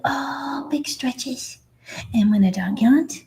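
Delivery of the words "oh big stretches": cooing. Retold or imitated. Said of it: "we go".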